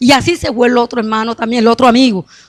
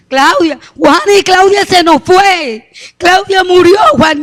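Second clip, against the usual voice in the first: higher, drawn-out wail of bad news; retold crying out; 5 semitones higher, slower than usual. Sister-in-law tells Juani that Claudia died, retold crying out. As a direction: imitate a grieving woman breaking the news. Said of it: "y me llora y me dice".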